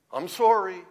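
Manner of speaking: a hint of a reluctant kid apologizing; child's forced apology. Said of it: "my children used to do this when they were small".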